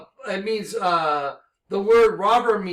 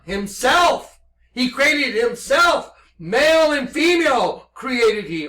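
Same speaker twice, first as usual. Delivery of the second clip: fervent preaching; 5 semitones higher, 6 dB louder than usual. Real, not acted. Preaching revelation at rising force.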